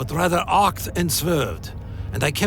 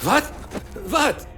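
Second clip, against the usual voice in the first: sharp startled question; 9 semitones higher than usual. Acted. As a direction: jump at the voice. Startled by voice in thoughts.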